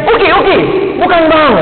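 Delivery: imitating a bus tout hollering routes; bus tout calling. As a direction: hawk the route like a terminal tout.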